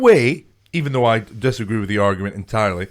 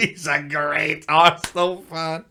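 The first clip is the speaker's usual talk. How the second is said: laughing repeat; 4 semitones higher, slower than usual. Real, not acted. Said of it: "repeats partner's line".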